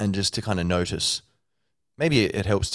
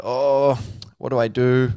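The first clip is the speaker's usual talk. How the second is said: louder, higher flustered cry; mock panic; 5 semitones higher, 5 dB louder, slower than usual. You dithering over a hamburger, hammed-up panic. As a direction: fret out loud like it's a crisis. Panicked self before temptation.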